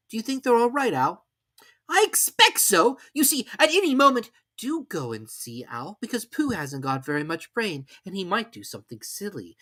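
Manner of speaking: put-on high, eager boy's voice; an excited little boy; Christopher Robin voice. A narrator's reading.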